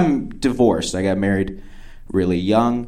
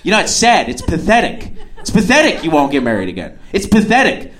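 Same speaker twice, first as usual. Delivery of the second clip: imitated indignant repetition, pitched up; really mad; 6 semitones higher than usual. Date berates him for not remarrying, really mad. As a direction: hammer the verdict, higher each burst. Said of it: "getting really mad".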